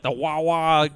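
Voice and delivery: wah-wah music imitation; imitated gangster music. Podcaster describing a movie montage, imitating its music. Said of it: "you know, gangster music on the".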